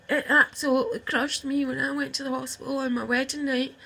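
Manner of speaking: laughing through tears, voice catching; a real teary laugh as she starts to break; crying laugh. Real, not acted. Speaking to her sister, half laughing half crying. Tearful confession to estranged sister.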